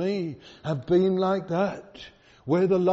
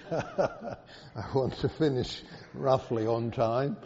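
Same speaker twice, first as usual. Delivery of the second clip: laughing; 2 semitones lower, slower than usual. Real, not acted. Laughs about watching the clock.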